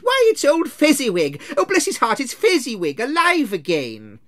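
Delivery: high, loud, overjoyed cry; an old man thrilled to see his old master; great excitement. Acted. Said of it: "cried in great excitement".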